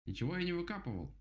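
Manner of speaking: high, offended protest; indignant rabbit. Acted. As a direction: protest like a wronged little rabbit. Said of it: "возмутился кролик".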